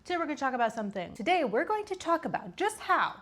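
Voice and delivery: panting between words; talking while winded; out of breath. Real, not acted. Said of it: "I'm out of breath".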